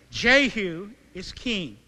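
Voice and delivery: slow, ringing proclamation of "Jehu is king"; proclaimed. Acted. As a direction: proclaim "Jehu is king" slowly and fully, as over trumpets. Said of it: "blew the trumpets and proclaimed".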